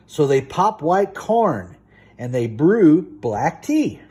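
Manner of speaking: sing-song bedtime story reading; rhythmic picture-book read-aloud; storybook reading. Acted. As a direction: read it lively to a small child.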